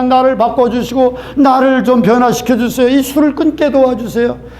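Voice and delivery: imitating a man begging God to change him; earnest pleading prayer. Man begging God to help him quit drinking, earnest plea. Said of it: "간절히 기도하고".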